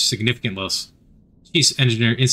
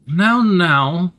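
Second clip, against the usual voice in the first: stammering; 6 semitones higher, 4 dB louder than usual. A narrator's reading. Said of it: "they stammer".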